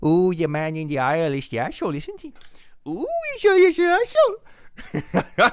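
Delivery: put-on very high, swooping, sing-song baby talk. Retelling how a passenger spoke to her dog: imitating baby talk to a dog. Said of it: "she would baby talk the dog".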